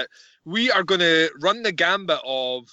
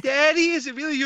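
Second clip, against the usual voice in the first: high-pitched imitation of a princess; Princess Vespa; 9 semitones higher, faster than usual. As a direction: play the hopeful daughter, pitched up. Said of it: "And she's like".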